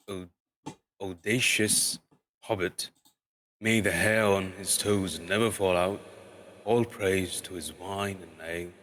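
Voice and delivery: lightly voiced pompous dwarf king; slow, grand, ceremonious speech; formal speech. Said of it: "This was Thorin's style".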